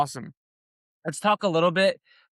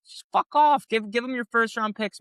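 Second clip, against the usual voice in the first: exasperated outburst; 7 semitones higher than usual. Real, not acted. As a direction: throw it away like you're fed up. Exasperated outburst at trade critics.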